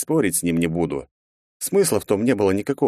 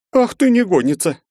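loud, high outraged mother; shrill nagging scold; indignant scolding mother; 12 semitones higher, 5 dB louder than usual. Acted. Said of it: "топнула ногой от возмущения".

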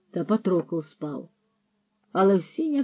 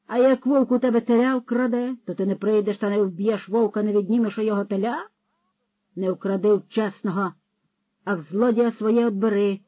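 scolding rogue philosopher; 3 semitones higher, 5 dB louder than usual. Acted. Patrokol rebukes Roman for quoting commandments, indignant lecture. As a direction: scold the ignorant lad, then argue.

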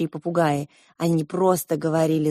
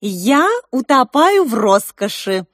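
languid; 7 semitones higher, 6 dB louder, slower than usual. A narrator's reading. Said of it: "томно добавила она".

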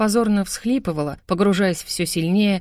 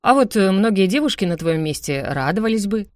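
snide smirk; 2 semitones higher than usual. Acted. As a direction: needle her with a smirk. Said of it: "ехидно усмехнулся брат".

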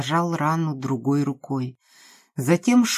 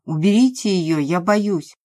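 louder, panicky plea; frightened plea; 2 semitones higher, 4 dB louder than usual. Acted. The scared man begs the women, louder in panic. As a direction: beg them to get the dog away.

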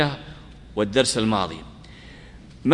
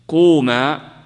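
loud demo command; 4 semitones higher, 8 dB louder, much slower than usual. Shown as a demonstration.

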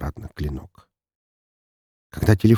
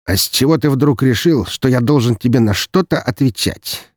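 lazy; 6 semitones higher, 3 dB louder than usual. Acted. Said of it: "лениво поинтересовался Даниил".

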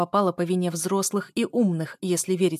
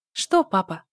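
louder, taunting question; mocking; 6 dB louder, slower than usual. A narrator's reading. Daughter looking father in the eye, mocking. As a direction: needle him with the question. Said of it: "спросила я с издёвкой".

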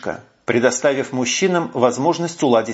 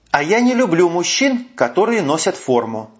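angry; 6 semitones higher than usual. A narrator's reading. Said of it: "зло добавила брюнетка".

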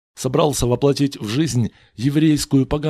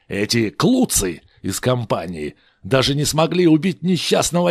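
Moses ranting; 4 semitones higher, 4 dB louder than usual. Acted. Moses holds forth.

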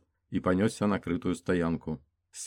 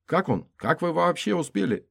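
anxious female voice; 11 semitones higher, 4 dB louder than usual. Acted. Friend asks anxiously.

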